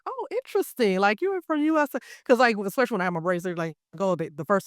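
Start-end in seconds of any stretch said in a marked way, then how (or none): 0.0-2.0 high, intrigued mock reaction; pitched-up impressed quote; imitating intrigued demeanor. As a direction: mimic a driver suddenly interested, pitched well up. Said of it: "their whole demeanor be like".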